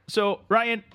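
sleepy Canadian drifter greeting his pal; Canadian accent. Acted. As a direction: play the neighbourly Canadian couch guest. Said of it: "Canada Dave".

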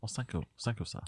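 put-on soft polite Asian accent; quiet put-on Asian accent. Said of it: "doing the Asian accent now".

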